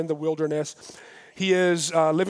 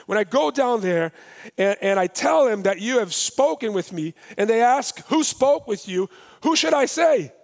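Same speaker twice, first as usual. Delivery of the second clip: voicing Moses, climbing higher and louder to the question; pleading Moses; 4 semitones higher, 4 dB louder than usual. Preacher voicing Moses asking God's name, pleading higher. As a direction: plead your doubt, rising as you go.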